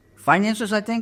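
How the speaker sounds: high, unsure, timid little voice.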